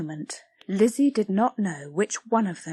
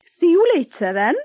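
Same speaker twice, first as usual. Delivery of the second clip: high, loud curt farewell; Blodwin, curt; 8 semitones higher, 8 dB louder than usual. Acted. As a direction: leave in a huff.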